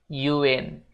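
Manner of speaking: "You in" run together as "yuin"; linked you in. Shown as a demonstration. Teacher demonstrates the link in "You in". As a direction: glide "you" into "in". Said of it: "kita juga sambung jadi you in".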